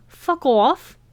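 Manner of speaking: the friend gasps in astonishment; shocked. Acted. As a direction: blurt it out in shock. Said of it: "Lavina was agog".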